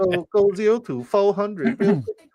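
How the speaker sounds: very high, slow fake Asian accent; mock Asian accent. Host riffs on the player's name, high mock Asian accent.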